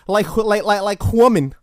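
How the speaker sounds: a deliberately shaky fake Russian accent; bad Russian accent. Comedian doing a bad Russian accent for a Halloween bit. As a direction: ham up a shitty Russian accent. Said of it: "disguise my voice with a arguably shitty Russian accent".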